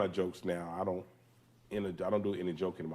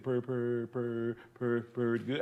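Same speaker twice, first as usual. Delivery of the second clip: stuck on each word, voice caught; held-word stutter; 4 semitones higher, much slower than usual. Retold or imitated. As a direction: hold the words in your throat. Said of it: "the guy hold his words when he talk".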